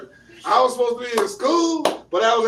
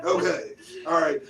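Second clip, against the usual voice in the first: customer service voice. Shown as a demonstration. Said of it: "Only in professional situations".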